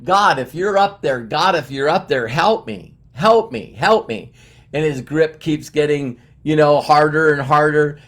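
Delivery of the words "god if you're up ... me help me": mildly raised cry for help; acted desperate calls for help; mock yelling. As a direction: plead upward to God, half-yelled. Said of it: "he's yelling, he's like".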